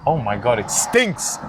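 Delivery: disgusted by a stench; recoiling from a bad smell; smelling something awful. Real, not acted. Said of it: "You see what I'm telling you?".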